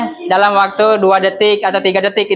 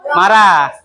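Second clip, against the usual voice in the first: "marah" pushed out louder, falling hard; mock angry; 3 dB louder than usual. Shown as a demonstration. Teacher showing students an angry expression, mock angry. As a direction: snap the word "marah" out like a mock rebuke. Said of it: "kalian lagi ma".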